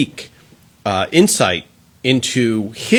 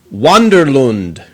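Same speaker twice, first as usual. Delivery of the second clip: name drawn out slowly in New Jersey accent; playful New Jersey pronunciation of the name; 5 dB louder, slower than usual. Shown as a demonstration. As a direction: stretch "Wanderlund" out, New Jersey style. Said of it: "That's with a New Jersey accent".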